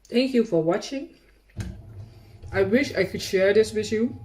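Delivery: talking while chewing; words through a mouthful of cake; mouth full. Real, not acted. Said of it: "talk with my mouth full".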